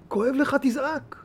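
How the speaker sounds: hushed slow advice; quiet. Real, not acted. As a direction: say it softly after the outburst. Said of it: "soft quiet conclusion".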